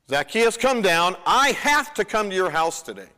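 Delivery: a friendly shout upward to the branches; calling out. Acted. Jesus calls Zacchaeus from the tree.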